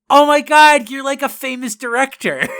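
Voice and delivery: high, loud starstruck gush; giddy disbelief. Retold or imitated. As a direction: squeal it like a starstruck fan. Fan gushing at famous director.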